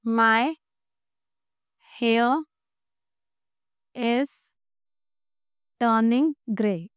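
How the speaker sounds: long pauses between words, drawn out at the end; word-by-word dictation. Shown as a demonstration. Teacher leading students through a translation, word-by-word dictation. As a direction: spell out the sentence one word at a time.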